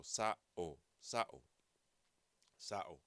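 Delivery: sa'o with a sharp glottal catch at the start of each vowel; glottal stops in sa'o. Shown as a demonstration. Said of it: "abruptly stop a vowel or start it".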